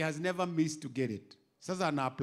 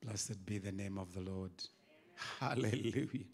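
soft praise; 10 semitones lower, 11 dB quieter than usual. Real, not acted. Quiet prayerful aside.

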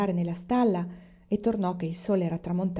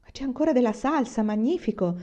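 pleased exclamation, a little higher; father delighted to see the gravy; 5 semitones higher than usual. Acted. Father at supper, happily surprised by gravy.

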